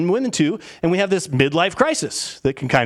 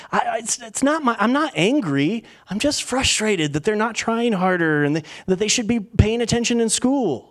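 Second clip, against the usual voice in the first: stammering, higher-pitched defensive protest; mock exasperation; 5 semitones higher than usual. Parent excusing annoyance at a kid's grades, mock exasperation. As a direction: justify yourself, mildly worked up.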